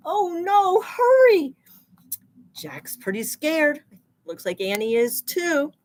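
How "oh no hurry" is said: high, loud panicked hurry; panicked urging. Acted. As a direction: rush them, alarmed. Chase scene, urging characters.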